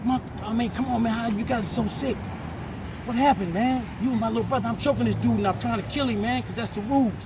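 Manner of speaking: anguished outburst. Real, not acted. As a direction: pour out the hurt and outrage over the brother. Anguished rant about little brother.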